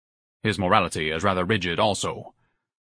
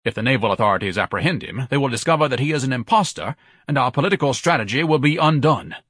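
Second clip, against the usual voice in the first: high, forceful outburst building in urgency; alarmed tirade; 6 semitones higher, 4 dB louder than usual. Acted. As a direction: declaim a pompous panic. Ignatius panics, orders sailor removed.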